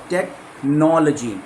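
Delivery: slow टेक्नोलॉजी with no stressed. Shown as a demonstration. Teacher drilling syllable stress. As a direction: draw out टेक्नोलॉजी, lean on no. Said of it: "एलओजीवाई के पहले एनओ है".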